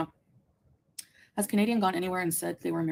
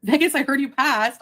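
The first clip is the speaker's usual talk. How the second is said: loud slow call-out; 5 semitones higher, 7 dB louder than usual. Real, not acted. Reading a chat message aloud.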